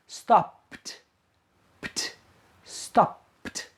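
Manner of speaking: stopped ending in a crisp pt; stopped, pt spoken softly; final t sound. Shown as a demonstration. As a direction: clip the pt at the end. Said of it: "so you pronounce the past".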